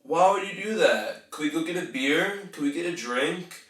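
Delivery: "Why would you do that", "beer" and "drink" pitched high as questions; questioning. Shown as a demonstration. Coach showing what not to do, high questioning tune. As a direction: lift "beer" and "drink" in uncertain asking. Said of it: "Do not end your sentences with a question".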